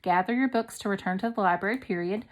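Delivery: quick, flat command; brisk command read. Shown as a demonstration. Teacher reading the command sentence aloud, quickly. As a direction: rattle it off as an order. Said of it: "a command".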